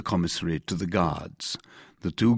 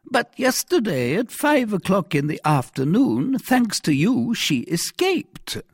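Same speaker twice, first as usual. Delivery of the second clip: stern commissary; 14 semitones higher, 6 dB louder than usual. Acted. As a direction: lecture the prisoner from a height of authority. Commissary accuses the prisoner.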